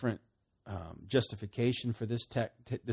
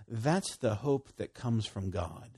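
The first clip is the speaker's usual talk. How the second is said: slow restatement; slower than usual. Shown as a demonstration. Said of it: "let's say it like this".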